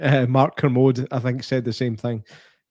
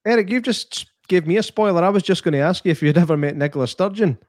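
high, playful mock scolding; mock outrage; 5 semitones higher than usual. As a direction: tease the viewer with fake outrage. Mock complaint to viewer, high.

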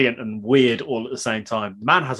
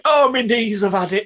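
put-on high, groaning old dad; creaky tired knees voice; 9 semitones higher, 4 dB louder than usual. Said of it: "The dad's just like".

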